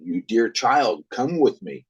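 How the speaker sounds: a hint of a luring spirit; luring Elf King. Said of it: "The Elf King".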